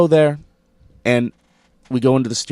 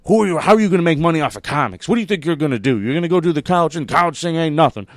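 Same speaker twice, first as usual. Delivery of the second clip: mock tirade; 4 semitones higher, faster than usual. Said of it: "he goes after Suzanne".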